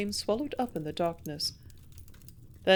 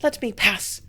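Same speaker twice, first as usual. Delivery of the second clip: louder, urgent demand; loud pleading cry; cried out; 6 dB louder than usual. A narrator's reading. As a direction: cry it out to get past him. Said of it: "she cried".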